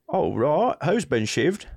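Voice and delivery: even, unbothered Cockney; lightly put-on Cockney; Cockney 911 operator. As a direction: take the report calmly in Cockney. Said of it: "is Cockney".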